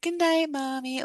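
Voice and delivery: sing-song imitation of babying someone; mock coddling. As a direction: mimic tucking in an invalid. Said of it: "treating her mom like an invalid".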